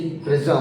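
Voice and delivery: प्रिज्म said as "priz-um"; unwritten vowel sounded. Shown as a demonstration. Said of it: "तब भी उसका sound आ रहा है".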